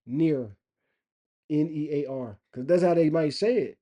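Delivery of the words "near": "near" with the G dropped and a hard final R; demonstrating "near" without its G; G left out. Shown as a demonstration. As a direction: say "near" as one syllable, hard R at the end. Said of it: "say it without the G".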